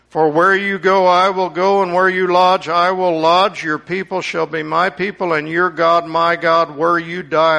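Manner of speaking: loud, heartfelt vow; earnest vow. Acted. Ruth pledging loyalty to Naomi, loud and fervent. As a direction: swear it with all your heart.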